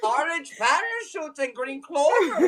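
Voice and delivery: slow, lightly attempted Irish; Irish accent. Performer listing cereal shapes, slow mock-Irish accent. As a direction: draw it out in a shaky-attempt brogue. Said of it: "You have to do an Irish one".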